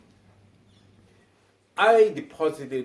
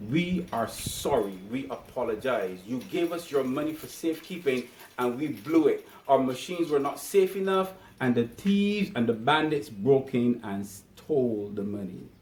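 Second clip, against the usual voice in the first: mock bank apology; 3 semitones lower, 4 dB quieter than usual. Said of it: "come out first thing on Monday morning and say".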